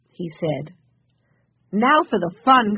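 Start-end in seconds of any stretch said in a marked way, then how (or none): 1.7-2.7 louder, higher, eager exclamation; excited cry. A narrator's reading. Alice to the others on reaching the store, excited cry. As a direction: cry it out with glee. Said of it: "cried Alice".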